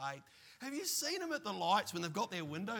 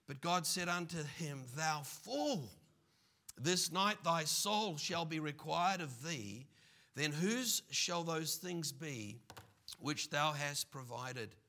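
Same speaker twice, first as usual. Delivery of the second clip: scripture reading. Acted. Preacher reading the parable to the congregation, measured. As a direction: read the parable out with weight.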